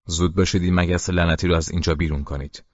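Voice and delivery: fast, agitated order; explosive outburst. Acted. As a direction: blurt it out in a rush at the crew. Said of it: "پدرم آنچنان که گویی توپی منفجر شده است، از جا جهید".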